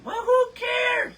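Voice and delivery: high, loud "who cares" shout; dismissive shout. Real, not acted. Host waving off a caffeine worry with a loud shout. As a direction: brush the worry off with a loud burst.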